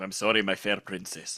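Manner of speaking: terrible, deep, bad put-on Scottish accent. Player voicing the male lead addressing a princess, in a bad Scottish accent. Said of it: "terrible, offensive to the entire nation of Scotland Scottish accent".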